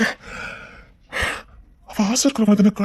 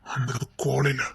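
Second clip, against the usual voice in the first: a soft guilty whisper; whispered, almost unvoiced; hushed whisper; 6 semitones lower, 7 dB quieter than usual. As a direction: breathe the words out, barely voiced. Quiet tender confession.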